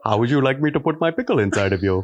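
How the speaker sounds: a light, laughing put-on Indian accent; joking Indian accent to a friend asking for one. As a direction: tease in a mild Indian accent. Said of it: "I can do an Indian accent very good".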